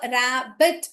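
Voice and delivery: रैबिट as two separate beats, "ra... bit"; split into syllables. Shown as a demonstration. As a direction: sound out रैबिट with a gap in the middle. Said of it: "you hear only one consonant sound".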